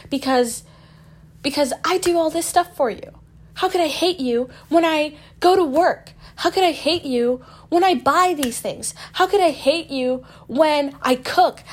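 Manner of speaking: mock her snapping back with indignant questions; defensive mom. Mom defensively throwing her sacrifices back at her daughter, mock indignant. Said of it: "she would basically get really defensive".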